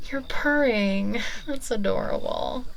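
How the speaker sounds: slow, delighted coo. Acted. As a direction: coo over a purring pet. Witch coos at purring cat.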